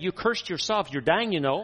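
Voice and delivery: put-on high, loud Texan accent; mock Texan woman delivering blunt news; Cindy Jacobs. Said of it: "Cindy in her Texan accent".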